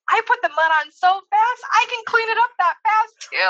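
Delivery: put-on high, cheerful child voice; a proud little boy's quick comeback; proud kid. Son bragging to mom about cleaning fast. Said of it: "right away he's like".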